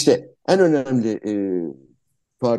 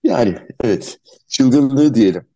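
blocked nose; 6 dB louder than usual. Real, not acted. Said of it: "biraz burnum tıkalı".

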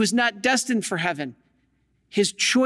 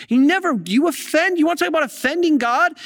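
emphatic preaching; 5 semitones higher than usual. Real, not acted. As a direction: preach it hard to the congregation. Preacher rising to emphatic point.

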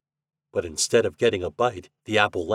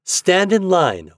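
loud, high, drawn-out command; giving an order; 10 semitones higher, 7 dB louder, slower than usual. A narrator's reading. Chuck lines the boys up for a game, ordering. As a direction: order them about, raised and slow. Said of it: "ordered Chuck".

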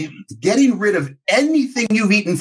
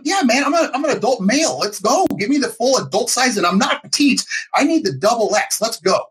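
high, eager and pushy; excited demand; 6 semitones higher than usual. Retold or imitated. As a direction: hype yourself up, voice high. Demanding bigger gown, pitch up.

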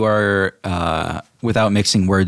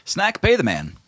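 genie; 12 semitones higher than usual. Acted. Genie orders Snack.

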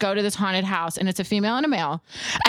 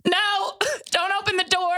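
mock scared; 11 semitones higher than usual. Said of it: "I'm like".

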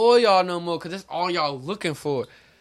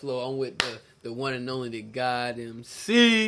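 show host intro; 3 semitones lower than usual. Acted. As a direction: hype host sign-on. Hosting the live show intro.

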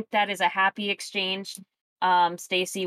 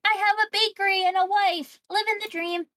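high, happy shopkeeper boast; contented merchant; 14 semitones higher than usual. Retold or imitated. The merchant bragging about her bakery and wife, high happy voice. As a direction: play a smug, satisfied baker. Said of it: "a funny merchant to just be like".

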